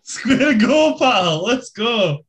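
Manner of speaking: hammed-up Glasgow fight challenge; glasgow street accent. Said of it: "traditional Russian phrase there".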